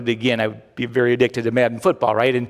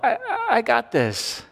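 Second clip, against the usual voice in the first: mock confident shout; 7 semitones higher than usual. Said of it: "shouting out as confidently as you can".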